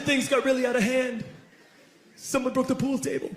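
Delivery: put-on high-pitched, plaintive kid voice; imitating upset schoolmate. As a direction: complain as the distressed party host. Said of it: "And he said".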